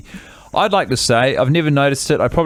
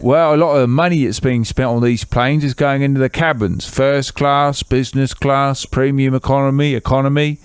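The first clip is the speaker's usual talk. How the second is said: put-on Keith's English accent.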